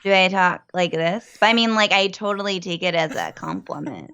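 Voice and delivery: lightly put-on comedian voice; Sarah Silverman. Co-host trying out the voice viewers compared, light Silverman impression. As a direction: mimic the comic, half-seriously. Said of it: "never heard your Sarah Silverman impression".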